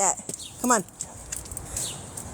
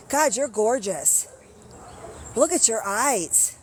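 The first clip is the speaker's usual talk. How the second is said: admiring the cat; slower than usual. Real, not acted.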